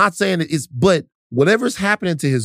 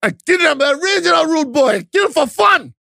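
put-on Jamaican movie-gangster accent; 11 semitones higher than usual. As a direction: ham up a Jamaican gangster from Belly. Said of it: "Is it okay for you to do the accent?".

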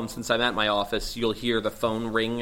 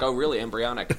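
mock skeptical interviewer. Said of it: "so they would see my reaction".

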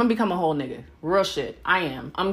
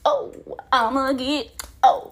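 excited singsong; 5 semitones higher than usual. Retold or imitated. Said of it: "I'm like".

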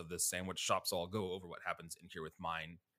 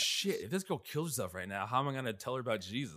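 raised, urgent rush of words; a mock panic, pitched up and hurried; panicked inner voice; 4 semitones higher, 4 dB louder than usual. Religious woman panicking over girl in the pool, urgent and raised.

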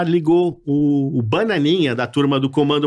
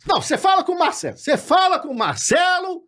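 much higher, quick dismissive voice; Carlos Alberto brushing off; 14 semitones higher than usual. Pretend. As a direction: fake boss cutting him off. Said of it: "igual a voz, o Carlos Alberto". (imitação aguda e rápida do chefe)

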